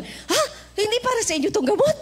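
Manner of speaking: put-on high, fast, tearful old woman; crying old woman. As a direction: plead like a weeping elderly mother. (umiiyak na matandang babae)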